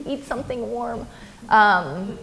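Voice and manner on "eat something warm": breathy whispered whine, pitched much higher; a worn-out child begging her dad for sleep, whining; whiny tired kid. Retold or imitated. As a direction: sigh it out like an exhausted child. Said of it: "And you're like".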